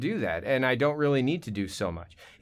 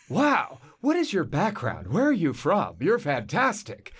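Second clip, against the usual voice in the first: higher-pitched, gushing casting director; mock amazement; 4 semitones higher, slower than usual. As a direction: imitate someone hugely impressed, stretching the praise. Casting people impressed by the Australian.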